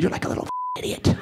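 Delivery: squeaky fast mock scold, pulled back; high, hurried and hushed insult; scolding my kid. Dad snapping at his young son, squeaky hushed scold. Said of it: "I've said that to my kid".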